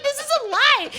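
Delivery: high, loud flat accusation; indignant retold shout; mock accusing shout. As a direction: call it a lie, loudly.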